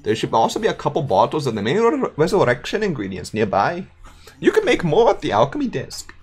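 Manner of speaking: put-on German accent. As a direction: play the chained undead Gunter with a German lilt. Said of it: "with this accent".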